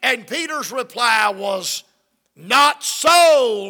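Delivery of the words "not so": loud refusal. Acted. Peter refusing the heavenly voice.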